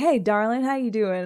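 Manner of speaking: put-on man's slight southern New Orleans accent. Describing how polite Brett is, doing his New Orleans accent. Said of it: "Brett's got his little New Orleans accent".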